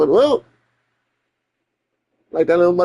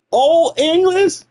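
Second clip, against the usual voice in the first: mock reverent; 9 semitones higher than usual. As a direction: announce it like a vintage wine. High, slow savoring.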